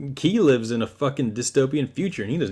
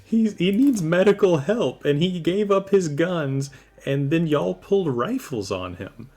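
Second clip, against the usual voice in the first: heated protest; 5 semitones higher than usual. Acted. Defending the wounded man.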